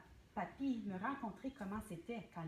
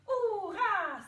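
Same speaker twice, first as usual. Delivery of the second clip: hurrah yelled high and loud; shouted hurrah; 10 semitones higher, 12 dB louder than usual. Shown as a demonstration. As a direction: really cry out hurrah. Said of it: "crie hurrah".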